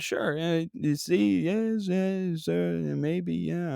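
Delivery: put-on halting Euro trash accent. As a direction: agree vaguely in a phony Euro accent. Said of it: "in my Euro trash accent".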